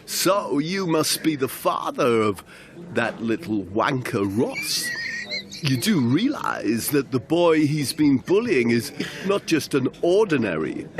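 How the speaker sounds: menacing thug. Acted. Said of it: "Vardy spoke first".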